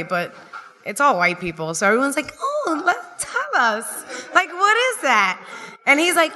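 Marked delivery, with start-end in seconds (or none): 2.4-5.4 high, giggly fake-delighted party guests; gushing dinner guests. Dinner guests fawning over a ten-year-old's scribble, high giggly gush. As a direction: coo at the kid's drawing, way up high and laughing.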